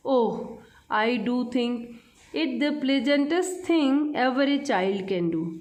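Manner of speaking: slow, measured reading of verse; poem recitation. Acted. Teacher reading a poem to children, slow recitation. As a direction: read each line out slowly for children.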